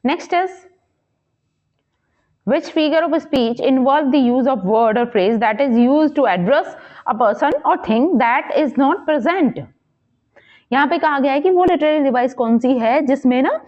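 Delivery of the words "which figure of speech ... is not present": slow, measured question read-out. Acted. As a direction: read the exam question out slowly, word by word. Reads quiz question aloud.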